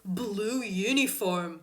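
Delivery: mock indignant officer; triggered policemen. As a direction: imitate an offended cop, stretching the last words. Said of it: "they were so fucking triggered".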